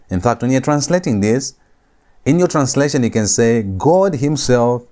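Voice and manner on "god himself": "God" stretched long and slow; slow, weighty emphasis on "God"; stress on GOD. Shown as a demonstration. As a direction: lean heavily on "God" before "himself". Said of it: "to place emphasis on Yahweh".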